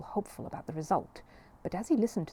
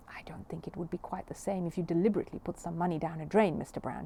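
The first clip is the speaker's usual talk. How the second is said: tactful. Acted. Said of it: "he said tactfully".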